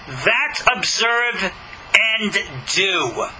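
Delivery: slow, weighty "that observe and do." with pauses before "do"; dramatic pause. Shown as a demonstration. Preacher reading verse three to his listeners with a slow dramatic pause. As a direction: let "do" land after a dramatic pause. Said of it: "Dramatic pause".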